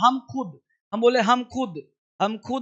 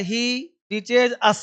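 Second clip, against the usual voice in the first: slow model sentence; much slower than usual. Shown as a demonstration. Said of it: "teacher models the English sentence".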